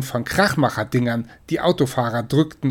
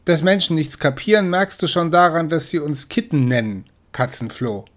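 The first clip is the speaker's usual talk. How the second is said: snooty sister; 4 semitones higher than usual. Acted. Sister lecturing.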